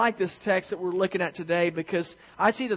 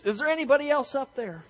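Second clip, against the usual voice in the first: doubtful hiker; 8 semitones higher than usual. A narrator's reading.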